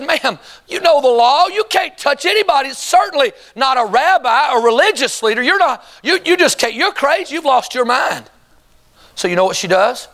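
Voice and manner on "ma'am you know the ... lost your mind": scolding crowd. Acted. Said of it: "they would have said".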